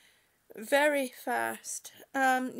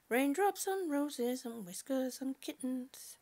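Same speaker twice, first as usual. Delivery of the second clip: whispered lyric; 5 dB quieter than usual. Retold or imitated. Recalling a song lyric softly.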